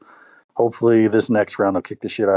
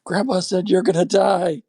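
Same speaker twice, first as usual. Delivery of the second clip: much higher, slow deadpan delivery; punchline kid voice; 11 semitones higher, slower than usual. Retold or imitated. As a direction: drag out the punchline slowly. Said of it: "He goes".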